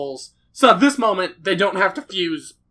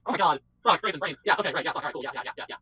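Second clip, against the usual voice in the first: muttering to themselves; 5 semitones lower, 10 dB quieter, much faster than usual. Retold or imitated. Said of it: "they fucking just like".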